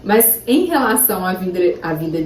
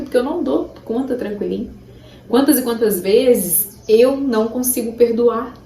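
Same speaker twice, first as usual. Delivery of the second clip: usual speaking voice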